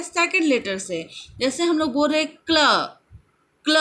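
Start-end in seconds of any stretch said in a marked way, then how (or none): 3.6-3.8 क्ल with क stronger than ल; stress on first consonant. Shown as a demonstration. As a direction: lean on क and let ल be lighter in क्ल. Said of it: "क को हम लोग स्ट्रेस दे रहे हैं".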